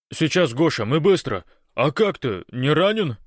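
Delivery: high, loud, flustered reassurance; hurried gabbling. A narrator's reading. Большой promises Гош to hurry, gabbling anxiously. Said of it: "затараторил Большой".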